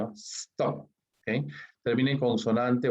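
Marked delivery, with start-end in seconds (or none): 0.1-0.9 "Stop" as a single short syllable; one-syllable demo. Shown as a demonstration. Teacher repeating the verb for students, one-syllable demo. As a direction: give "Stop" as just one sound. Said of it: "un solo sonido".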